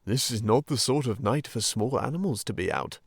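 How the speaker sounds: a lightly voiced fatherly Badger; gently scold, then welcome; paternal. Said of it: "he said paternally".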